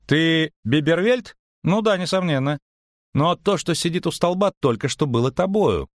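high-pitched, bewildered bard; animated questioning, pitched well up; puzzled bard. A narrator's reading. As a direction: demand an explanation in a high voice. Lyutik questions the witcher.

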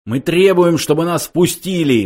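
high, loud demand; indignant cry. A narrator's reading. Younger intruder demanding to be let in, crying out. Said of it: "вскричал младший из них".

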